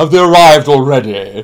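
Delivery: high, loud, booming delivery. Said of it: "this booming voice saying".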